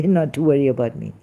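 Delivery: normal talking voice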